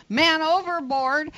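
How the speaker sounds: half-hearted imitation of an alarm yell; mock yell. Boater alerting others that someone fell in, mock yell. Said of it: "somebody yells".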